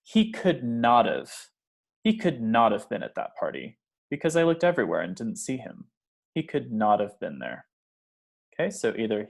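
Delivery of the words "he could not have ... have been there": "He could not have" with not separated and stressed; strong emphasis. Shown as a demonstration. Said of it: "If we're really strongly emphasizing this sentence".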